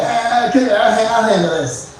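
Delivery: lightly voiced Norm taking over; Norm Macdonald impression. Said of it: "an impression of my favorite comedian".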